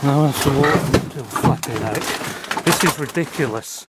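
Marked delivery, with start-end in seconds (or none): 1.2-2.6 slow, lower, softer exasperated mutter; weary exasperation at being stuck; exasperated groan. Real, not acted. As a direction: drag it out, fed up. Stuck again in the cellar.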